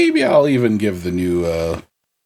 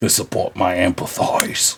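mock British accent, settling lower; Kit Harington; 3 semitones lower, 4 dB quieter than usual. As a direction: finish the hammy British-accented boast. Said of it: "my Kit Harington impersonation".

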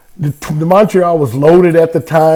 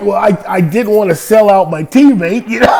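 laughing excuse; 4 semitones higher than usual. Retold or imitated. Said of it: "And I'm like".

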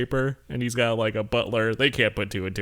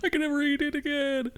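mock lament.

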